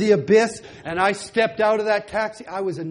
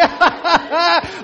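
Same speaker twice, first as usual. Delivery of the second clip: mocking laugh; 8 semitones higher, 4 dB louder than usual. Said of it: "they start laughing at me".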